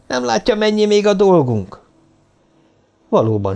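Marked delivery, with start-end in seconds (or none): 0.1-1.8 high-pitched, exasperated scolding question; indignant protest. A narrator's reading. Woman professor protesting there is work left, indignant. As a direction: scold an overexcited colleague. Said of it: "tiltakozott a professzorasszony".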